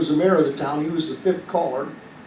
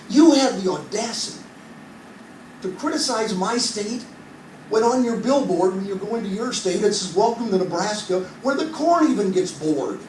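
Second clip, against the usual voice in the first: mock outrage, higher; ranting at the guy; 4 semitones higher than usual. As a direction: pile on the insults, half laughing. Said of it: "I went ballistic on this guy".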